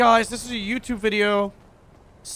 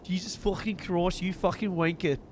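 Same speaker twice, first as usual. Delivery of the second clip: a lightly rough London thug, swearing; rough gangster voice; 5 dB quieter than usual. Acted. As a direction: growl it like a street tough. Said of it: "This original voice of this character".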